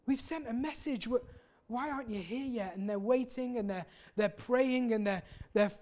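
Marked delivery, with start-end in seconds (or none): 0.0-2.8 mild anguished cry for help; tearful pleading. Retold or imitated. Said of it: "they're crying out".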